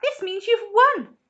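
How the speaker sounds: high, loud, drawn-out announcement; excited cry. A narrator's reading. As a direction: cry out the wonderful news. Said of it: "he cried out".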